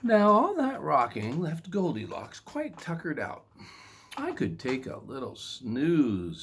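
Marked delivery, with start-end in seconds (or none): 4.1-6.4 put-on sleepy girl. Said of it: "she said".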